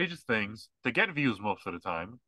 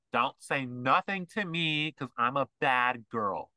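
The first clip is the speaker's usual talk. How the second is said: mock bad girl attitude; slower than usual. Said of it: "that's what they sound like".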